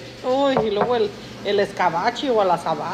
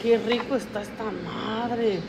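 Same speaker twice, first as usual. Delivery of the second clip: slightly wrong copied voice; slower than usual. Retold or imitated. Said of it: "No, no me andes copiando".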